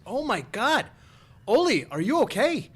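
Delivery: high-pitched, drawn-out worried wife; mock alarmed wife. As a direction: act out a wife's alarm, voice jumping up.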